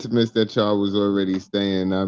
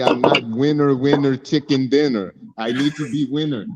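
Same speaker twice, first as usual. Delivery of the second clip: properly pissed-off, annoyed voice; 4 semitones higher than usual. Acting out what he would say in maybe his last Milwaukee year, mock-angry Giannis Antetokounmpo impersonation. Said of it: "channel you doing the Giannis impersonation right now".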